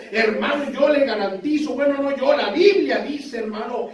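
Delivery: insistent pulpit assurance; fervent preaching. Real, not acted. Preacher assures the congregation they are instruments of God, fervent preaching. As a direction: press the promise home like a preacher.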